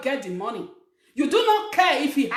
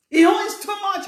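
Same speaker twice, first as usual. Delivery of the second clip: higher, louder indignant repeat; louder mock angry repeat; 7 semitones higher, 4 dB louder than usual. Relative repeating the gripe about his brother, louder indignant. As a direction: hammer the complaint home. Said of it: "You will be angry".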